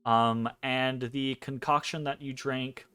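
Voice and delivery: slow, hushed scene-setting narration; game master narration. A narrator's reading. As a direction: paint the dream scene slowly. GM sets the dream scene.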